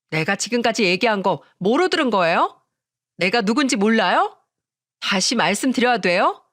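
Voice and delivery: affronted, self-important challenge; haughty sister-in-law, threatening. Acted. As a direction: pull rank and threaten.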